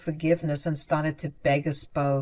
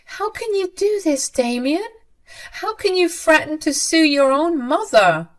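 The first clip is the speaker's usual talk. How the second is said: much higher, stunned outcry; shocked pleading mother; 10 semitones higher, 4 dB louder than usual. A narrator's reading. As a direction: cry out in disbelief at her son.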